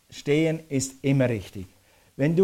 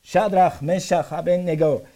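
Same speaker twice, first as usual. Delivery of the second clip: loud royal summons, stretched at the end; raised, proclaiming shout; calling out; 3 semitones higher, 5 dB louder, slower than usual. Acted. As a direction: call names out towards a furnace. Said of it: "trat näher an die Öffnung des Ofens und rief".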